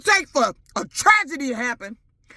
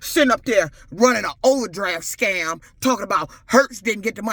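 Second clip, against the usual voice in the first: a lower, heavy voice for her angry other self; low other personality; 6 semitones lower than usual. Real, not acted. To the commenter, her other personality, low and heavy. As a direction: let the suppressed personality growl out, lower. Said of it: "you G meeting the other personality".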